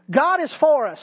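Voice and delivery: "for" lifted and punched; stress on for. Shown as a demonstration. Preacher modelling a memory drill, stress on "for". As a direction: lean on "for" in "God is for us". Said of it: "say the words again and say".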